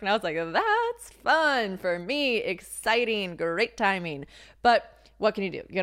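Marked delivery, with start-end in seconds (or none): 0.4-4.3 very slow, dragged-out sarcastic cheer; deadpan the bad luck as if it's great news; dry sarcasm. Lease signed as city shuts down.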